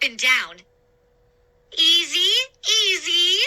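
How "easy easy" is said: high, loud warning voice; calm them down, urgently. A narrator's reading. Woman steadying a jumping sailor on the raft, warning. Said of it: "Madeline warned".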